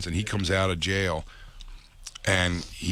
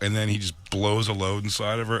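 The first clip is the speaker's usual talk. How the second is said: ordinary talk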